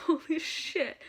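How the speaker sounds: fan's giddy reaction to her country called; excited exclamation. Retold or imitated. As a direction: burst out with it after a laugh. After laughing, screamed at Norway.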